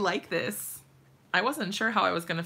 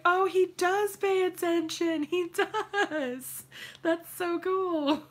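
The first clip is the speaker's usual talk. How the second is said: high, gushing mock delight; excited proud wife; 9 semitones higher, slower than usual. Proud wife gushing that her husband paid attention, high excited voice. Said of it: "I was like".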